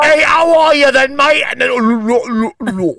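a co-host parodies the distant caller's greeting; mocking English caller. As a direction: call out like a cheery Brit on a bad line. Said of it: "It starts off like this".

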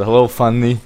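Fanny said the Swedish way; hello in a Swedish lilt; Swedish accent. Retold or imitated. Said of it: "I had to say it in a Swedish accent".

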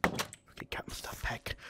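breathy hushed whisper; soft unvoiced whisper while gaming. Real, not acted. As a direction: whisper it as if sneaking. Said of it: "I don't know why I'm whispering".

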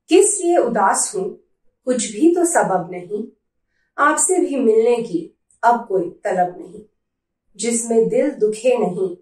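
measured verse with pauses between lines; poem recitation. Acted. Reading favourite poem to viewers, measured poetry recitation. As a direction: recite it line by line, letting each one land.

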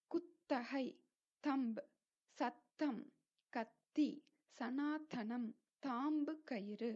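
சத்தம், கத்தி, சனாதனம் with breathy th; aspirated dental t. Shown as a demonstration. Teacher giving examples, சத்தம் and கத்தி with th. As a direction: puff air on the t in தம்ப், கத்தி. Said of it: "அதுதான் right pronunciation".

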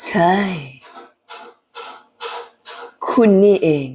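White Widow replying to Grace. Acted. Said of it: "ทำเสียงทุ้ม แล้วก็ต่ำลงมา".

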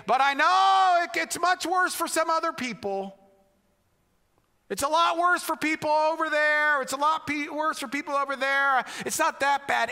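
a mild mock of someone downplaying their pain; imitating hurting people. Pastor voicing people who meet with him, downplaying pain. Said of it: "they say".

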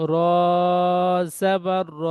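teacher's deliberate spelling drill; spelled piece by piece. Shown as a demonstration. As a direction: cut each syllable apart before joining. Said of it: "আবার পড়ছি".

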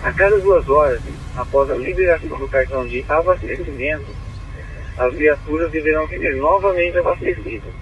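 crackly two-way radio transmission; squelchy handheld radio; police radio. Real, not acted. Dispatcher reads order over radio.

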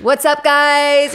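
high, loud, drawn-out stage greeting; mock a famous-person stage voice, stretching the words; a singer's onstage voice. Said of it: "my famous person voice".

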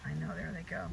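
soft whispered aside; whispering. Real, not acted. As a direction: whisper it to yourself. Whispered aside watching puppies.

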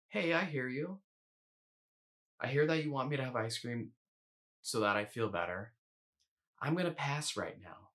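gentle and patient, no push; quiet, patient. Shown as a demonstration. Coach answering the food voice kindly, quiet and patient. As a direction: answer the craving kindly, like soothing a child. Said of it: "this tone of voice that I'm responding in, quiet, relatively patient".

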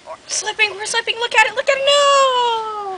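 mock panic. Pretend panic on the bridge.

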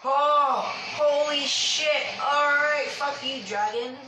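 high, loud frantic yells; panicked shouting. Real, not acted. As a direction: scream at the dragon. Dragon fight near death.

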